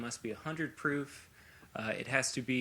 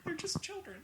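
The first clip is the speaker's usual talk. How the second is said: put-on high, hammy old-time TV dad; fifties sitcom dad voice. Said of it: "Is this your fifties sitcom dad voice".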